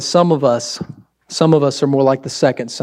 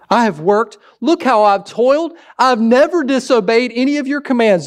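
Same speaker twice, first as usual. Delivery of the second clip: smug boasting son; 6 semitones higher than usual. Acted.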